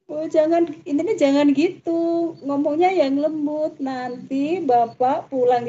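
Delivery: lightly voiced child, slow and gentle; little girl's voice. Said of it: "Terus kata anak kecil itu".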